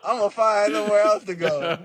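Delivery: put-on high, pouty child voice threatening to leave; be a mad little kid storming off; sulky kid threat. Kid mad at his mom, high pouty threat to run away. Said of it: "You know how kids be when their mom make 'em mad?".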